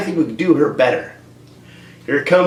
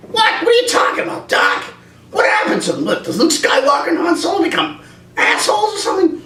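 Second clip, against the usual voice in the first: alarmed Marty; 13 semitones higher than usual. Acted. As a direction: squeal it in shock. Marty reacts in skit.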